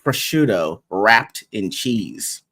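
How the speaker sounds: a vendor's slow sales pitch; slow tempting offer. Retold or imitated. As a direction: draw the words out slowly. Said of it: "they're like".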